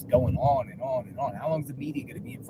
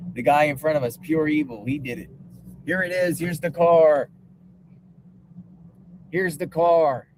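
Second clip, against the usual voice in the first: mock-dramatic accusation, building louder; sarcastic; 2 semitones higher, 3 dB louder than usual. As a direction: announce the culprit with mock excitement. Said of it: "I'm being sarcastic".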